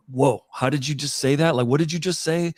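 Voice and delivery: imitating astonished listeners, pitch climbing; amazed reaction.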